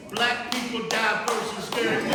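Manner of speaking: very high, very loud comedic tirade; worked-up, high-pitched stand-up yelling; comic shouted rant. Real, not acted. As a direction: holler the punchlines at the crowd. Comic rant about scary movies.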